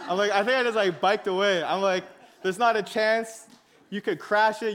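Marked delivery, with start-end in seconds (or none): 2.4-4.7 persistent refusal. Retold or imitated. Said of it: "I was very persistent".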